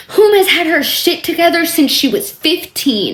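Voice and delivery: reading through a cry-laugh; half sob, half laugh; laughing mockery. Mocking her text.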